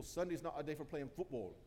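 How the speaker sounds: lightly attempted, clumsy Scottish accent; a hint of amateur Scottish accent; terrible Scottish accent. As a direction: have a bad go at sounding Scottish. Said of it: "that's my terrible Scottish accent".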